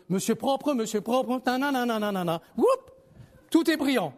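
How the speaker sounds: petit jingle publicitaire imité, finissant sur un cri aigu; imitation de pub. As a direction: imiter légèrement une réclame, puis un « whoop » perché. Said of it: "Vous avez déjà vu la pub". (parodie légère de spot télé)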